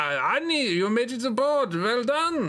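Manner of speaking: slow, high, clumsy put-on French accent. Reading the story aloud, speaking the line to Annie in an attempted French accent. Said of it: "Try to do a French accent".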